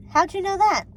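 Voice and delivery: high, loud amazed question; surprised. A narrator's reading. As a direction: ask it in amazement. Amazed boy asks.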